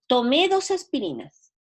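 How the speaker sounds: "Tomé" stressed on the final é, past tense; accent on tomé. Shown as a demonstration. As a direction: land the stress on the last syllable of "Tomé". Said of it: "Cuando yo le pongo acento".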